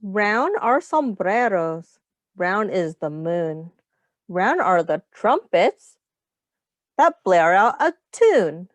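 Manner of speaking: storybook voice for a class; reading to children. Acted. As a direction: read the rhyme gently to little ones. Reads rhyming picture book aloud.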